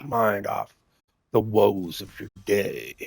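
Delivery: understated smooth background-stream voice. Shown as a demonstration. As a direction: ease into a soothing late-night radio voice. Demonstrates his deep stream voice.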